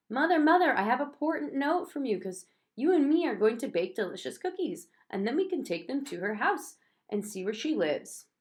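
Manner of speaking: put-on high, bright eager child; begging mother to bake cookies; child pleading excitedly with Mother. A narrator's reading.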